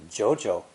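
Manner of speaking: "jiu jiu" rising on the first, dipping on the second; rising then low tone. Shown as a demonstration. Teacher showing the doubled expression, "jiu jiu" rising then low. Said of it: "a rising tone".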